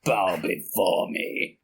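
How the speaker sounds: terrifying angel. Acted. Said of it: "angels are meant to be terrifying".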